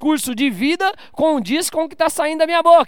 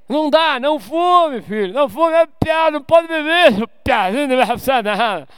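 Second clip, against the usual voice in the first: put-on raised, shouting parent telling off a child; mock scolding parent; 3 semitones higher, 4 dB louder than usual. Preacher acting a father yelling at his son, loud.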